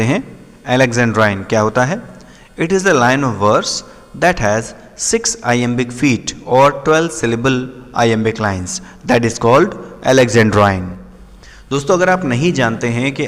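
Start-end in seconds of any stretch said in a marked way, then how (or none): 2.6-10.8 slow, deliberate reading with pauses; measured textbook read-out; reading out a definition. Shown as a demonstration. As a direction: read the definition out slowly, phrase by phrase. Reads out a definition.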